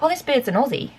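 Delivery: light mock Australian accent. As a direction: say it like a cheeky Aussie. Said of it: "an Australian accent".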